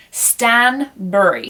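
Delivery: "Stanbury" drawn out slowly, ending "bur-ee"; careful pronunciation. Shown as a demonstration. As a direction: slowly sound out "Stanbury", not like "Barry". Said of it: "you don't pronounce it like Barry".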